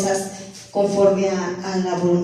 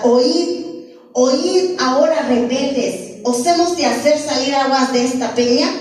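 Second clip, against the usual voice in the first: Moses shouting angrily; 3 semitones higher than usual. Retold or imitated. Moses scolding the rebels at the rock, mock angry shout. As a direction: play Moses scolding the people, a bit raised. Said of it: "¿Cómo le gritaba?".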